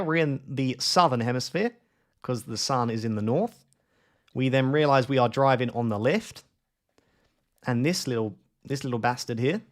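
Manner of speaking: mock Aussie accent, endings swinging upward; bad Australian accent. Apologising to Australians while explaining a bollard, bad Australian accent. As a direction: play up a dodgy Australian accent. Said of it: "Such a bad accent".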